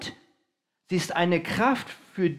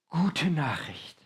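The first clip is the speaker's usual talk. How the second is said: slow, lowered and deliberate; slow emphasis; 3 semitones lower, 4 dB quieter, much slower than usual. Shown as a demonstration. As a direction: land the phrase slowly, word by word. Defines Evangelium as good news.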